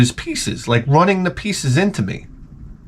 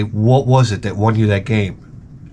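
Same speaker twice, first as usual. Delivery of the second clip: slow, low interviewer's question; imagined interviewer; 4 semitones lower, slower than usual. Pretend. Interviewer questions the chess champion afterwards, slow and measured. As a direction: pose it slowly, lower, as an interviewer. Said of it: "when they interview him afterwards".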